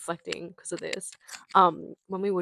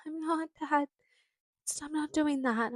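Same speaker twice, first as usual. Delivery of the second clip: put-on high-pitched childish denial to a parent; acted protest; 8 semitones higher than usual. Child caught by dad at the pie box, protesting innocence. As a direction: protest your innocence in a higher voice.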